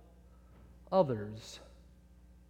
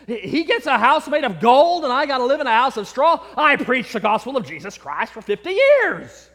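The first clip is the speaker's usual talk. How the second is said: louder, wounded indignation at the injustice; indignant outburst; 4 semitones higher, 4 dB louder than usual. Acted. Preacher protesting to Saint Peter, loud and indignant. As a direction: protest it like you've been cheated. Preacher outraged at straw house.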